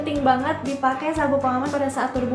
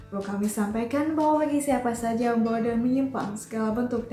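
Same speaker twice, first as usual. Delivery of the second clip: formal cabin announcement, measured pace; flight attendant; 3 dB quieter than usual. Shown as a demonstration. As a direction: read it like the pre-landing PA. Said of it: "Announcement-nya kayak gini".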